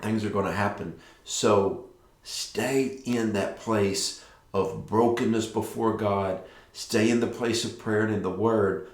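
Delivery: usual speaking voice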